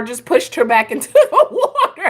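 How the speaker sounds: laughing while talking, high-pitched words, laugh breaking through.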